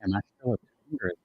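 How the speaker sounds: choppy bad connection; words dropping out; breaking up. Real, not acted. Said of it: "I did not hear".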